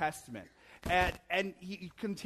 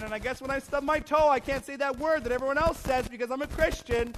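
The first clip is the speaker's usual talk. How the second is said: grudging churchgoer; 4 semitones higher than usual. Retold or imitated. Mocking a grudging churchgoer's thoughts.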